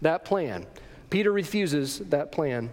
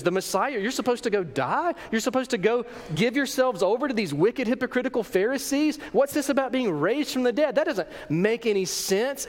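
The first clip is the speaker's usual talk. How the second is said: questions rising in disbelief; shocked disbelief; 3 semitones higher than usual. Acted. Disciples questioning a Messiah who dies, incredulously. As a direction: question it like a baffled follower. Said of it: "in shock and in disbelief".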